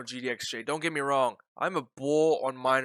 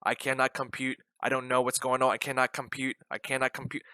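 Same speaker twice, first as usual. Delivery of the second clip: robot voice. Retold or imitated. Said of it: "I'm like a robot right now".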